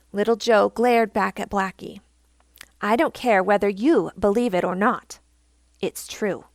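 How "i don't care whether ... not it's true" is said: retorting. Acted. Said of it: "he retorted".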